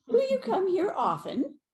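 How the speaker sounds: high, teasing mock pickup line; Prince Philip pickup line. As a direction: toss it off like a cheeky young man at a party. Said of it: "a voice behind me gave the pickup line".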